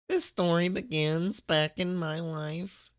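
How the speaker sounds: slow, high theatrical narrator voice; mock epic narration; dramatic storyteller. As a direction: ham up the opening line like a trailer. Dramatic re-read of opening.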